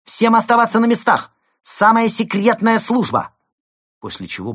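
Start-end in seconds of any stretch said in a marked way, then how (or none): 0.0-1.3 high, loud commanding shout; ringing female voice. Acted. Rescuer bursting in on the villains, ringing shout. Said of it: "раздался звонкий голос самки". 1.6-3.3 high, very loud announcement; ringing female voice. Acted. Rescuer announcing herself from behind the door, ringing shout. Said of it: "раздался звонкий голос самки".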